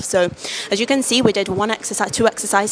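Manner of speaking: breathless after the workout sets; talking while still catching breath. Real, not acted. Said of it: "I'm out of breath".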